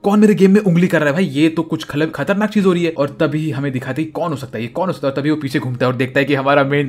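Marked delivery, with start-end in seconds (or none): 0.0-2.9 panicked rant. Acted. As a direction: rattle off the questions in rising panic. Schemer panics at unexpected note. (घबराहट में बहुत ऊँची आवाज़)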